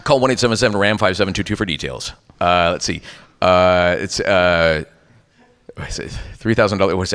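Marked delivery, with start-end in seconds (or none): 0.0-2.1 announcer rattling off the number; radio ad read. Shown as a demonstration. Voice actor demonstrates a commercial's closing, radio ad read. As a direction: read out the call-in line like an ad. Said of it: "and then it says".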